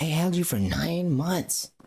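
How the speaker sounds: high, drawn-out indignant complaint; hammed-up hurt disbelief; mock aggrieved mother. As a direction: play the wronged mom, stretching words out.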